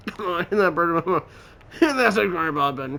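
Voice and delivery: cajoling. Real, not acted. Laughing while coaxing subscribe.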